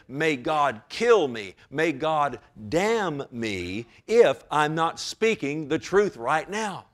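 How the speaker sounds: slow, weighty imitation of Peter swearing; deliberate mock oath, each phrase drawn out. Preacher voices Peter calling down a curse on himself, slow sworn oath. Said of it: "What Peter is saying is this".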